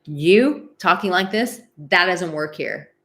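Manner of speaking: lightly acted firm warrior, loud openings; emotional warrior. Coach modelling shutting down a malicious person, emotional warrior. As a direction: put your foot down, slow and emphatic. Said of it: "emotional warrior raises its swords and goes".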